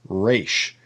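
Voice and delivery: "resh" with a plain front R, short and easy; English R resh. Shown as a demonstration. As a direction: Ashkenazi "resh" with a light American R. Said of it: "like an R sound".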